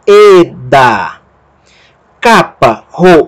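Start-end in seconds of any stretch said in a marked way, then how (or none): 0.1-1.2 Eda drawn out, e then da; sounded-out syllables. Shown as a demonstration. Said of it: "o delta som de D e o alfa som de A".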